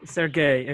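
"Sergey" repeated with a hard g; careful name repetition. Retold or imitated. Guest copying a participant's name, "Sergey" with hard g. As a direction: echo "Sergey" evenly, g as in "get". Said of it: "I try to pronounce people's name correctly".

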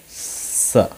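"स" with a long drawn-out s; letter's sound. Shown as a demonstration. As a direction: stretch "स" slowly into "sss-uh". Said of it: "जो उच्चारण होता है". ("स" को खींचकर बोलें)

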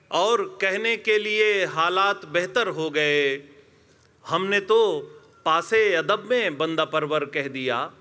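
measured mushaira recital with drawn-out phrase endings; poetry recitation. Acted. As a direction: recite the couplet line by line to an audience. Recites ghazal couplets with repeats.

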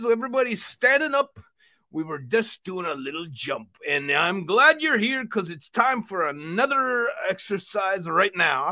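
hearty exercise-show puppet host; rally everyone like a cheery cartoon uncle; lively uncle character, punching the calls to action; jovial puppet uncle. Puppet Uncle Vino welcomes friend.

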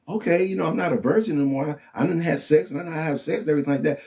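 mocking worldly voice. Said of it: "So then we like".

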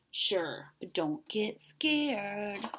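very slow, stretched-out rasp; raspy monster. A narrator's reading. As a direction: draw the warning out in a monster rasp. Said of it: "a third voice under the bed rasped".

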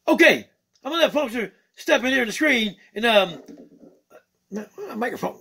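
excitable puppet bird greeting the fans; Skeeter the bird puppet. Acted. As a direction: play a cheeky funk-loving bird puppet.

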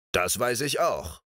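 lightly smug, grinning "Das weiß ich auch"; friendly grin. Acted. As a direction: say it with a pleased grin. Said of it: "grinste sie freundlich an".

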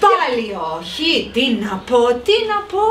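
exasperated. Acted. Salad lady hears another no, exasperation rising. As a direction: give up on him, theatrically.

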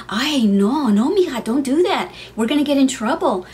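hint of a mom scolding her kids; worried mom. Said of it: "my mom's like".

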